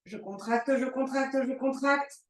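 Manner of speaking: strained, breath held in; holding breath. Real, not acted. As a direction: speak while holding your breath. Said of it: "Je retiens mon souffle". (souffle retenu, voix contenue)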